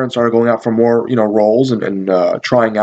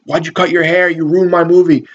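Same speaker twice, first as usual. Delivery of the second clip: higher-pitched mock outrage; retold freak-out, pitched up; flipping out; 5 semitones higher than usual. Director to actor who cut his hair, mock flipped out. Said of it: "he flipped out".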